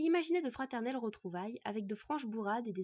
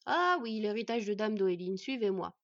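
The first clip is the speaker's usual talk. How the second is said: busy dwarf smith; 6 dB louder than usual. Acted. Smith calls guests to follow.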